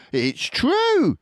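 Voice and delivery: put-on eager children insisting; excited fox cubs. A narrator's reading. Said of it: "cried the small foxes".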